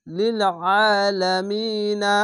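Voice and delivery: লিল আলামিনা with the মি held long; long stretched ending. Shown as a demonstration. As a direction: draw the আলামিনা out slowly. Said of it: "সে সকল সাকিন ... তিন আলিফ টেনে". (তিন আলিফ টেনে)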